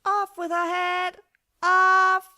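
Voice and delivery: screaming Queen. Acted. Furious Queen of Hearts ordering Alice beheaded. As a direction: scream it like a wild beast.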